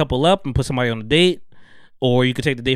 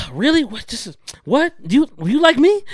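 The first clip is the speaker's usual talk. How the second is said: mock surprise; 11 semitones higher than usual. Mimicking Dom's stunned reaction.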